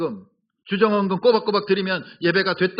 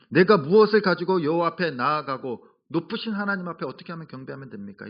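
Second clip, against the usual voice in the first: sarcastic; 2 semitones lower than usual. Acted. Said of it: "하나님을 비꼬면서 하는 얘기예요".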